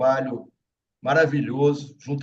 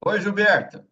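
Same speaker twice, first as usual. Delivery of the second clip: calling out; 6 semitones higher, 4 dB louder than usual. Real, not acted. Calling to a guest on a live.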